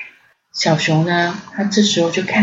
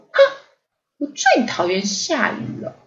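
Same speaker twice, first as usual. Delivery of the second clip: pouting; 6 semitones higher than usual. Acted. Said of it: "嘟着嘴， 不高兴地说".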